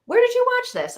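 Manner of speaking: a sudden whispered question; hushed whisper. Real, not acted. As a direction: whisper it, leaning in, conspiratorial. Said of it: "whispered question".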